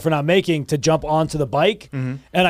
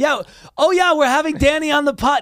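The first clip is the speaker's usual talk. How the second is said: teasing, mocking put-on voice, pitched very high; 10 semitones higher than usual. Retelling what Mitchell did in the car, imitating Mitchell's impression of Danny. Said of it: "This was Mitchell's impression of you".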